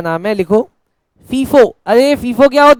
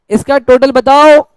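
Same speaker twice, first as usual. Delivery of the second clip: drawn-out, slower prompt to the class; calling for answers; 4 dB louder, slower than usual. Real, not acted. Teacher asks students for the total, drawn-out call. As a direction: stretch the last word out as a call.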